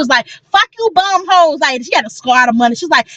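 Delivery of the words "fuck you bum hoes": high, drawn-out mock rapper brag; imitation of a rapper. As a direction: imitate a young rapper flexing, pitched up and slowed. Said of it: "Why she sound like a young rapper?".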